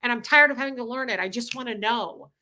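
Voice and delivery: exasperated, rushed at the end; frustrated outburst. Retold or imitated. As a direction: demand to catch up, fed up. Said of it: "it makes me very angry".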